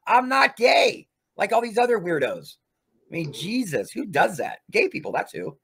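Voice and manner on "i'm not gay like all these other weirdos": angry shout. Real, not acted. Ranting at a rival streamer.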